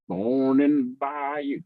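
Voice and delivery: slow, drawn-out southern attempt; southern accent. Shown as a demonstration. Podcaster tries southern on request, drawn-out southern accent. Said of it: "in his most southern accent".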